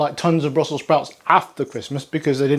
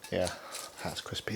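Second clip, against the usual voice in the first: breathy hushed whisper over the crunch; 7 semitones lower, 17 dB quieter than usual. Real, not acted. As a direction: whisper it while chewing.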